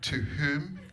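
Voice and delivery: slow, prim letter opening; posh dictation. Retold or imitated. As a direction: dictate it very properly. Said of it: "And then Lily said".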